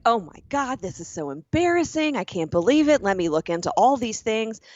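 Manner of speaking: high, gushing mock panic; overdramatic manager. Manager overreacting to a restaurant complaint, gushing and flustered. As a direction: play the flustered manager who overapologizes. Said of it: "if the manager is like".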